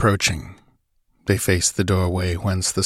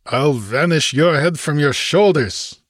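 raised, threatening retort; infuriated snarl; 6 semitones higher than usual. A narrator's reading. Infuriated Cimmerian threatening the stranger, snarling. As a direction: snarl the threat back at him. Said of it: "snarled the infuriated Cimmerian".

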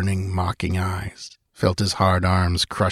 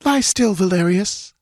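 pleading; 12 semitones higher than usual. Acted. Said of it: "begged the girl".

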